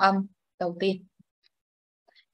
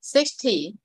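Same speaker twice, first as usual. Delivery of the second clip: Sixty as SIX-tee, falling off; Sixty with the first syllable prominent; stress on first syllable. Shown as a demonstration. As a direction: put the weight on the start of Sixty. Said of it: "nhấn trọng âm số một".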